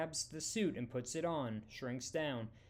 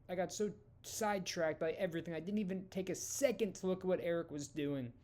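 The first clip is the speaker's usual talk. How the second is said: tearful; 5 semitones higher than usual. A narrator's reading. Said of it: "Janet begins crying again".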